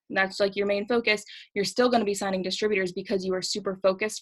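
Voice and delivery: breathless after talking fast; running short of air; out of breath. Real, not acted. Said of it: "now that I'm completely out of breath".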